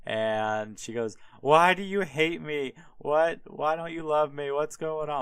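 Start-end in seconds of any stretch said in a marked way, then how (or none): 1.4-5.2 higher, pleading, hammed-up whine; mock whiny crying. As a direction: play the fake-crying fiancee, higher. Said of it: "the bitch goes and cries to Samson".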